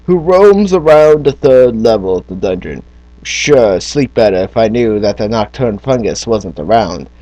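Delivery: lightly voiced fantasy villager telling of a quest; quest-giving townsperson. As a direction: read it as a storybook townsperson offering a job. Reads quest giver's text in voice.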